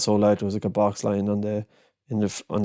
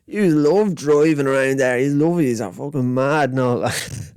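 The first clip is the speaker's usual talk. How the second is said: put-on higher, cheeky young Dublin kid voice; 4 semitones higher, slower than usual. Narrator quotes the cheeky Dublin boy, higher and chirpy. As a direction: play a chatty seven-year-old. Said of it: "he goes".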